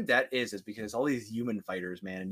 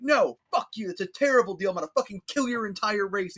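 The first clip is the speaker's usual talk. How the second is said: mock angry Gandhi; 8 semitones higher than usual. Gandhi rejecting a trade deal, mock fury. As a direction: snarl like a warlord.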